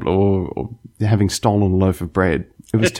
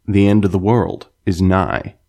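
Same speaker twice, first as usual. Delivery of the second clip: American accent; 2 semitones lower than usual. Shown as a demonstration. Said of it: "hear you guys do an American accent".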